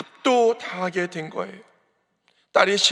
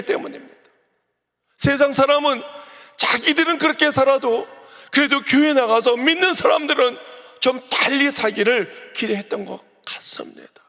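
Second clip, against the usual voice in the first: louder, higher, driving sermon voice; full-force preaching; 5 semitones higher, 3 dB louder than usual. Acted. Pastor rebuking the congregation about the church's failure, fervent preaching. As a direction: press the congregation hard, rising in force.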